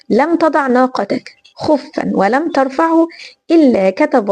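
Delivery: measured, formal classical Arabic; slow down and recite with reverence; hadith recitation. Acted. (تلاوة حديث بتمهّل ووقار)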